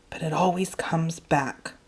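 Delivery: breathy unvoiced whisper, barely there. A narrator's reading. Boy to himself in the truck, whispering. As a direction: whisper it mostly to yourself. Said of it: "I spoke in a whisper".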